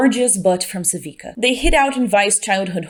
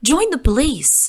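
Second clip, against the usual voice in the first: bad British accent; 2 semitones higher than usual. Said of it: "attempt at a British accent".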